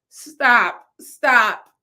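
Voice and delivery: loud mock protest; playful loud stop. Real, not acted. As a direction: cut yourself off loudly, half joking. Reacting to her own joke.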